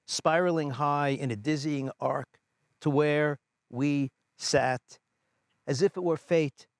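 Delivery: measured, deliberate reading of a poem; poem recitation. Acted. Poet reads library audience a memory of father, measured recitation. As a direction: read line by line, letting each phrase land before a pause.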